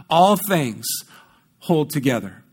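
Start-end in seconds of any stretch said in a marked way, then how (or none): 0.1-0.9 "all" drawn out with emphasis; stress on all. Real, not acted. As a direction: press on "all" once more. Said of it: "I can't emphasize that word all enough".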